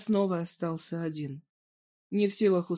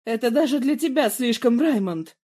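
loud, higher outraged cry; shouting; 5 semitones higher, 8 dB louder than usual. A narrator's reading. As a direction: scream it back at him. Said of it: "перешла на крик Даниэла".

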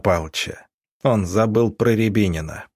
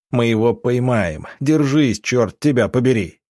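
raised, insistent plea; acted urgency, pushing harder on the middle word; desperate urging; 3 semitones higher than usual. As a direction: order a dying friend to hold on. Desperate urging of dying friend.

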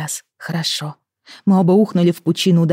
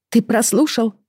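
indignant wife; 7 semitones higher than usual. Acted. Amy retorts indignantly to husband.

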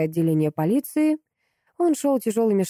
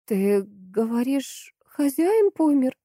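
barely audible; 6 semitones higher, much slower than usual. A narrator's reading. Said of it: "еле слышно выдавила Антонина".

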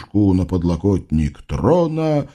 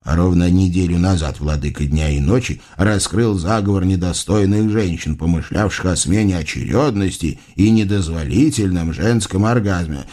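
solemn vizier; 4 semitones lower than usual. Acted. Vizier reports to sultan.

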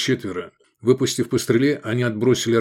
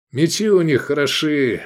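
higher, a bit loud approving remark; said loudly; 4 semitones higher than usual. Acted. Iskander loudly praising the enemy swords. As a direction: announce it to the group. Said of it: "громко сказал Искандер".

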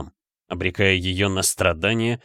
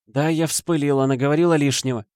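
desperate excuse; 7 semitones higher than usual. A narrator's reading. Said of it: "отчаянно оправдывалась мать".

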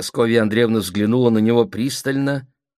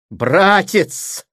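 high, loud appeal; crying out; 11 semitones higher, 6 dB louder than usual. A narrator's reading. Sister rebuking her brother, crying out. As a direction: exclaim in shocked protest. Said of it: "вскричала она".

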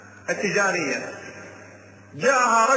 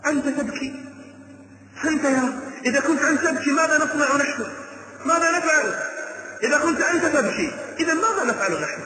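incredulous question; 5 semitones higher than usual. Retold or imitated. Disciples question weeping scholar.

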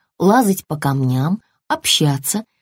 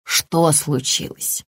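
worried mother; 4 semitones lower, 3 dB quieter, slower than usual. Acted. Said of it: "испугалась мама ящерица".

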